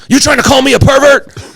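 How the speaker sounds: high-pitched indignant squawk; imitated upset outrage. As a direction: mimic a man deeply offended. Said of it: "he got really upset at that".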